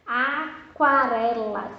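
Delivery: Aquarela slowly, kwa stressed; slow answer word. Shown as a demonstration. Teacher revealing the answer aquarela slowly. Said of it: "Se você falou quá".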